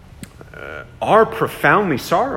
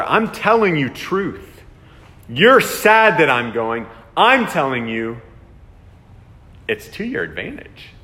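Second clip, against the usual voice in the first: emphatic Jesus; 3 dB louder than usual. Retold or imitated. Preacher voicing Jesus emphatically.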